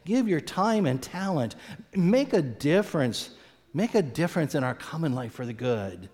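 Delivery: rally them to give time and talent; voice of community. Retold or imitated. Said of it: "It's that voice that says".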